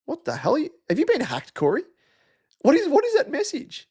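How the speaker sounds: what on earth is this, rising sharply; baffled surprise. Real, not acted. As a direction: pitch jumps way up in disbelief. Baffled by strange chat message.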